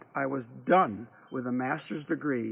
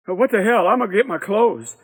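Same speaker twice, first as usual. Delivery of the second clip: defiant; 6 semitones higher, 8 dB louder than usual. Acted. Big Boy deciding defiantly.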